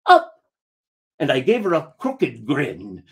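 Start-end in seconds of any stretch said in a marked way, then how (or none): 0.1-0.4 put-on high, loud child's demand; little girl asking. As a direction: squeal it like a toddler reaching up. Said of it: "she held up her hands and said".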